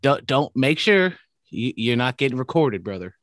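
lightly put-on wrestler voice; Hulk Hogan. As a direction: lean on it like a wrestler addressing fans. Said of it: "not a Hulk Hogan accent".

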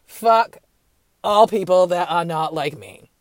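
lightly voiced bigot declaring; mock bigot. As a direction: play a racist waking up hateful. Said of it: "you didn't just wake up like".

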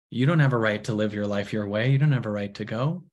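low, restrained possessive denial; controlling. Acted. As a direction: lay down control over a friend, understated. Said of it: "which we're really controlling".

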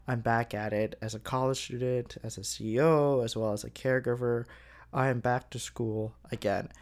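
tired monotone delivery. Real, not acted. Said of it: "my somewhat monotone voice today".

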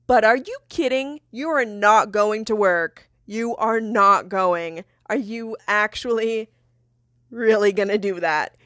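re-enacted argument, leaning on each word; retold indignation. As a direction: confront the partner in mild outrage. Re-enacts the breakup fight.

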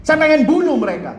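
high, sudden angry cry; startling outburst. Retold or imitated. Angry teen answers youth leader about parents, imitated high outburst. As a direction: burst out with it, high and forceful. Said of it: "Ih, kaget saya".

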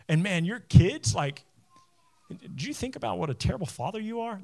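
whiny nagging inner critic, lightly voiced; crybaby voice. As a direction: needle yourself like a whiny inner voice. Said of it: "This is my four o'clock crybaby voice".

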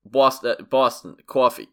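trying out a Boston accent on Boston; warming up a Boston accent. Shown as a demonstration. Lining up his New York accent, Boston accent. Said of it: "the way that I line up my New York accent".

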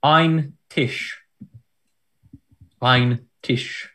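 put-on careful schoolroom German accent; studied German accent with a pause between takes; best German accent. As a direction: say it slowly as a German quiz word, German accent. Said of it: "in my best German accent".

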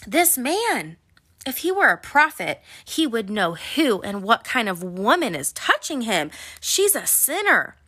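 scornful, swooping pitch on the key words; judgy Pharisee. Acted. Pharisee complaining about the sinful woman touching Jesus, judgy and indignant. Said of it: "Pharisees were real judgy and legalistic".

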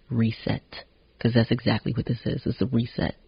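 talking between sips of tea; words round a sip of tea; while sipping a drink. Real, not acted. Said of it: "Sorry, I'm sipping my tea".

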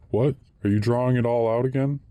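quick, lifted question of mild surprise; a bank clerk caught off guard, a touch of surprise; surprised. A narrator's reading. Clerk sees the whole sum withdrawn, quick mild surprise. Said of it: "he asked in surprise".

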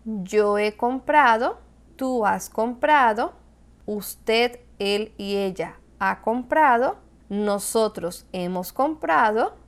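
slow, deliberate conjugation drill; teacher reciting the forms slowly. Shown as a demonstration. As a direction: spell out each form for the class slowly. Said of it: "Verbos en pretérito perfecto compuesto".

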